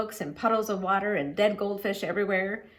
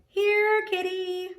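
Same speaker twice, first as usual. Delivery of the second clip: hollering; 11 semitones higher, much slower than usual. A narrator's reading. Teacher under a coat, calling the cat, hollering. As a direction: holler for the kitty, a touch raised.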